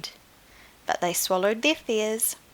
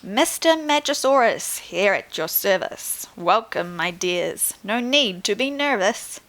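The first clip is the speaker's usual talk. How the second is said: showman's welcome. Acted. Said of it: "smiled as he spoke".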